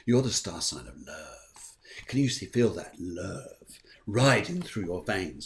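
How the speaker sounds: low, slow seductive croon; lightly voiced crooner, low and slow; a famous singer. A hint of a famous singer crooning to the Virgos. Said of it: "you sound like a famous singer".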